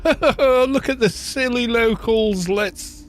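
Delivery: lightly hammed-up Victorian gent; mocking Victorian. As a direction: sneer at the silly locals. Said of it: "the Victorians going".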